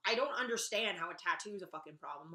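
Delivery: normal talking voice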